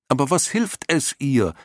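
deutlich höher gerufener Einwand; aufgebrachter Ausruf. A narrator's reading. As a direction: mit hoher Stimme aufgebracht einwenden. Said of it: "rief Atreo". (aufgebracht gerufen, in hoher Tonlage)

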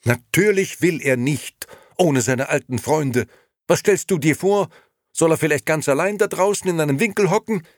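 very high, loud outburst; indignant. A narrator's reading. Liliana pleads her uncle's case to Nino, indignant. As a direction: scold him in rising outrage. Wife quarrels back at husband.

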